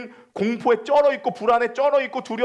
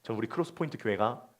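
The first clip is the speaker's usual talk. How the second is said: much softer, lower, intimate sermon voice; hushed preaching; 12 semitones lower, 12 dB quieter than usual. Acted. Pastor gently consoling the congregation, hushed. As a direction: draw them in close and quiet.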